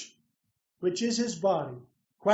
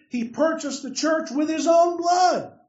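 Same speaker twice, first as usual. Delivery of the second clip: emphatic exclamation; 4 semitones higher than usual. Real, not acted. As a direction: proclaim it like an exclamation point. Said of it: "to put a little emphasis on that, a little exclamation point".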